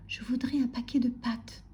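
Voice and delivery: small, timid murmured request; Monsieur Silence. A narrator's reading. Timid customer ordering from grocer, murmuring. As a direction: ask meekly, as if afraid of noise. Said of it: "murmurait Monsieur Silence".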